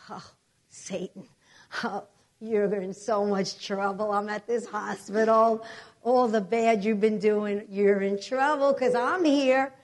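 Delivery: slow, drawn-out threat to the devil; taunting warning. Retold or imitated. Patient telling Satan he is in trouble, slow taunt. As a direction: draw each phrase out like a warning.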